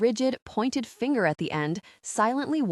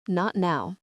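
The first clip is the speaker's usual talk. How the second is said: flatly. Acted. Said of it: "I said flatly".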